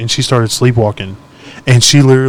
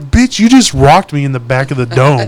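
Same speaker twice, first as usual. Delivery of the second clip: indignant accusation; 5 dB louder, slower than usual. Retold or imitated. Punched partner accuses him.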